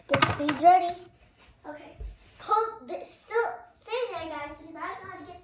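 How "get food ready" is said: yelling across the room. Acted. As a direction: call out loudly to the kids. Calling kids to eat.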